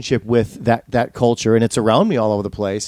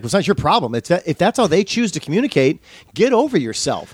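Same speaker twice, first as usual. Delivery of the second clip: indignant retort; 6 semitones higher than usual. Retold or imitated. Retorting, building up.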